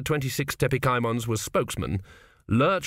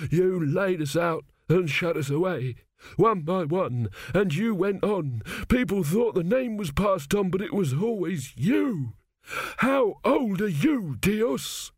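high, drawn-out croaking accusation; 7 semitones higher, slower than usual. A narrator's reading. Dead pharaoh accusing the high priest, high croak. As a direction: croak in a high, rising wail of blame. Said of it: "he croaked".

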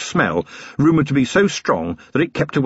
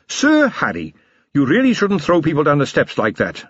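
lightly voiced polite captain; 4 semitones higher than usual. Carrot gently reprimands Harry.

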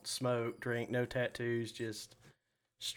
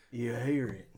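lightly put-on bad English accent; a touch of hammy English explorer; horrible English accent. Host voices safari hunter in the jungle, bad English accent. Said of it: "he has a horrible English accent".

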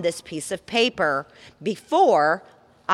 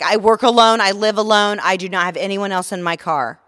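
loud, insistent, every word pushed out; exasperated shout; 3 semitones higher, 7 dB louder than usual. Retold or imitated. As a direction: yell it like you're fed up with the question. Insisting to the scammer on the phone.

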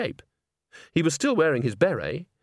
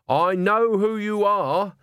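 high, drawn-out emphatic outburst; bursting out; 9 semitones higher, 4 dB louder, slower than usual. A narrator's reading. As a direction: blurt it out with urgency. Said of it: "Agnes burst out".

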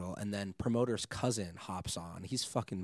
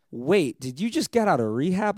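higher and louder, thrown by what he heard; stunned disbelief; 9 semitones higher, 11 dB louder than usual. Retold or imitated. DJ hearing the rehab line, higher shocked inner voice. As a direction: inner voice caught off guard, pitched high. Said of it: "I'm just processing in my head".

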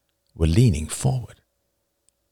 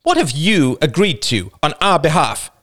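higher-pitched scornful demand; scornful wife; 6 semitones higher than usual. A narrator's reading. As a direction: challenge him with open scorn. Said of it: "asked his wife scornfully".

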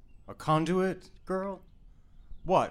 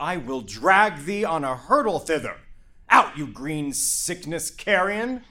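angry scolding. Acted. Capulet berates disobedient daughter.

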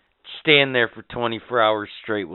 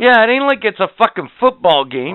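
incredulous rant; 9 semitones higher, 9 dB louder than usual. Real, not acted. Ranting about cheerleaders.

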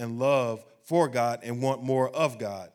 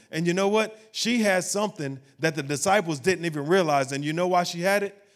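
higher-pitched, driving sermon delivery; fervent preaching; 4 semitones higher, 4 dB louder than usual. Real, not acted. Preacher telling what the disciples didn't realize, fervent. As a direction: press the point home to the congregation.

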